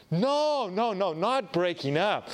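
sudden high alarmed no, then settling; flustered denial. Retold or imitated. To his date, a startled high no that he isn't breaking up. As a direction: jump in fast to deny it.

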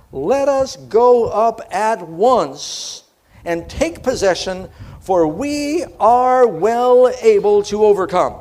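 loud, very slow and deliberate, hitting well; bold proclamation. Acted. Caleb rallies the frightened people from a rock, loud.

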